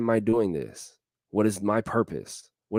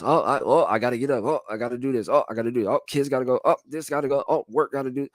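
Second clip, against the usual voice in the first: frantic to-do list; 2 semitones higher, much faster than usual. Acted. Mimics busy people's endless to-do list.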